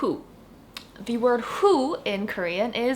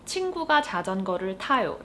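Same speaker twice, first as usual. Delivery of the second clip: fast, fluent Korean sentence; fast example sentence; much faster than usual. Shown as a demonstration. Teacher repeating the example sentence quickly. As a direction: say it at native speed. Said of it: "our example sentence for today is".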